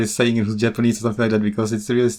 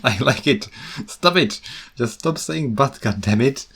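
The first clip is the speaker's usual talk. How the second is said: mock exasperated outburst; 4 semitones higher than usual. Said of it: "I just like".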